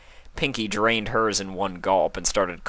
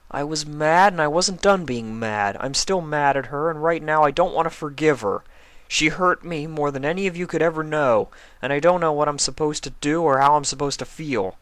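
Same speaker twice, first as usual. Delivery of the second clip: confessing; 8 semitones higher, 3 dB louder than usual. A narrator's reading. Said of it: "Spike confessed".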